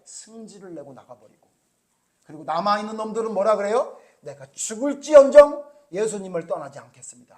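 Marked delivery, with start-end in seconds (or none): 4.2-7.4 loud, insistent pledge of loyalty; emphatic vow. Retold or imitated. Disciples loudly swearing to their teacher, firm and insistent. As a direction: shout the promise to stand by him. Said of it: "이렇게 강조를 해요".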